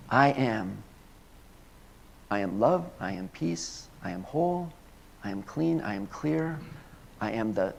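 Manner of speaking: centred, peaceful I-am declaration; calm affirmation. Shown as a demonstration. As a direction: affirm each line with quiet conviction. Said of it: "You see the difference?".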